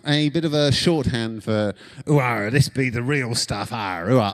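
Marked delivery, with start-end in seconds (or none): 2.1-4.3 hammed-up West Country burr that slides toward pirate; mock West Country yokel. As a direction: play the cliche cider farmer, ooh-ah and all. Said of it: "I've gone into pirate there".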